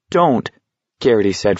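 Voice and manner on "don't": high, pleading note of fear; mildly scared protest; frightened. A narrator's reading.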